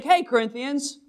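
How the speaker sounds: lightly voiced Paul chatting to the Corinthians; casual Paul. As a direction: talk to the church like old buddies. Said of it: "He's like".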